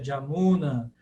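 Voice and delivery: "Jamuna" starting with DJ instead of Y; contemporary variant. Shown as a demonstration. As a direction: say "Jamuna" as "dja-MU-na". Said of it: "tá errada a pronúncia". ("Jamuna" com som inicial de "dj")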